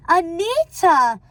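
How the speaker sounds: high, loud, drawn-out shock; slow, swooping indignant cry; affronted exclamation. Acted. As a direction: cry the name in offended surprise.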